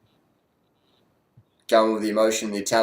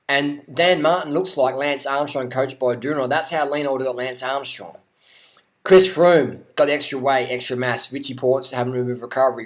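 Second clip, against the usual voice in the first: play-by-play; 3 semitones higher than usual. Pretend. Mock live race commentary.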